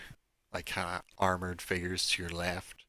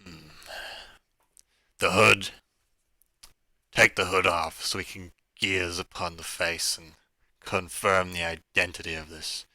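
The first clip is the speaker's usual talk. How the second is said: loud voice shouting; 4 dB louder than usual. Acted. Captor orders the hood removed, loud commanding voice. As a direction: order it across the room, a touch haughty. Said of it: "the loud voice shouting out again".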